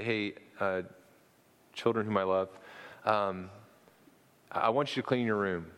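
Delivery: a gentle dad asking kindly, lightly voiced; patient, tender father, not far from his own voice; loving fatherly voice. Father telling his children to clean their room, mildly loving. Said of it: "in my very loving, fatherly voice".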